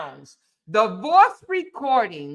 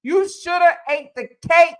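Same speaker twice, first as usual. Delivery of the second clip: voicing Cora. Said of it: "is what Cora is telling him".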